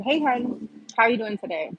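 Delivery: imitating her cheery old greeting to the patient; chirpy nurse greeting. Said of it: "But I had said".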